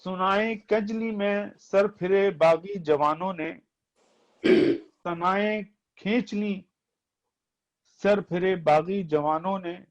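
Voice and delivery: poetry recitation. Acted. Reciting verse.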